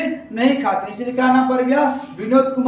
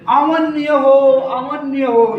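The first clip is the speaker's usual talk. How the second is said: drawn-out mock bird cry; 3 dB louder, much slower than usual. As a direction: call it out slowly, stretching the vowels. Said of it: "ये पक्षी क्या चिल्ला रही है".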